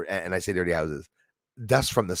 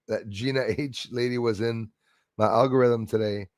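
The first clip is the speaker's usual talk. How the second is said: usual speaking voice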